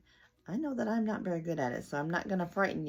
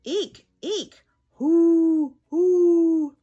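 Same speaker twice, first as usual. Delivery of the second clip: high, loud squeaks and hoots; 11 semitones higher, 14 dB louder, much slower than usual. Acted. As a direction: squeak then hoot like an owl. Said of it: "wonderful things Mister Brown can do".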